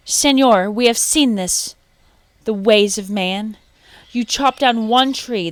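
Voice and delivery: excited monkeys warning the man; chattering monkeys. A narrator's reading. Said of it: "They chattered to the sleeping man".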